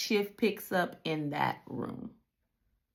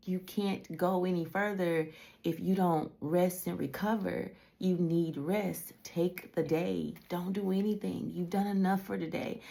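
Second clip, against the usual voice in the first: gentle voice of God; 7 dB quieter than usual. Retold or imitated. God speaking to her, retold.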